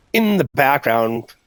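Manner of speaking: understated smooth background-stream voice. Shown as a demonstration. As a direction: ease into a soothing late-night radio voice. Demonstrates his deep stream voice.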